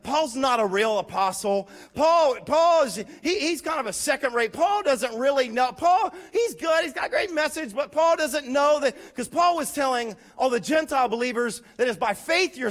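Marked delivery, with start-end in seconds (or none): 0.0-8.9 mocking critics. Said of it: "They're like".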